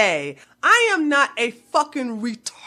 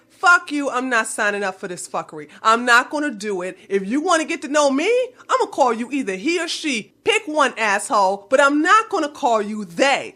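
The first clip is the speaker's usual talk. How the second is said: retold retort; faster than usual. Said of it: "And I said".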